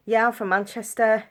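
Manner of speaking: put-on Manchester accent. Kid fooling others on holiday, pretend Manchester accent. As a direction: pretend to be a Mancunian, accent and all. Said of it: "different accents. So I'd be like".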